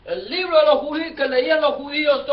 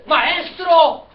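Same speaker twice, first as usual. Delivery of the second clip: raised, loud acted order; priests' demand; 3 semitones higher, 4 dB louder than usual. Priests telling Jesus to silence his disciples, loud acted demand. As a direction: call out a sharp complaint to the teacher. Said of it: "los sacerdotes le dicen".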